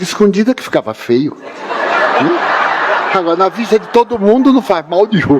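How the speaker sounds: cheeky remark through laughter; laughing quip. Real, not acted. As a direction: tell the joke laughing. Joking reply, laughing.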